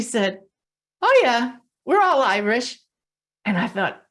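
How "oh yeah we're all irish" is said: higher and louder, bright "Oh, yeah" then rising "we're all Irish"; a lively, delighted "Oh, yeah, we're all Irish"; excited reply. Retold or imitated. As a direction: toss it off with a cheerful burst. Client's reply retold, more animated.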